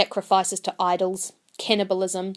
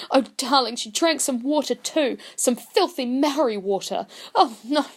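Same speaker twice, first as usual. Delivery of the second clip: a fretting mother shrilling about dirt and disease; horrified Pākehā mother. Acted. Pearl's mother complaining to her husband John, horrified.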